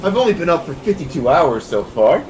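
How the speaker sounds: high, loud indignant denial; indignant protest. Acted. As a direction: brush it off with wired energy. Sleepless Efron protests.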